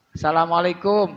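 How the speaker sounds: Assalamualaikum clipped fast as salamaleikum; wrong clipped. Shown as a demonstration. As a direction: rush it as salamaleikum. ("Assalamualaikum" cepat jadi salamaleikum)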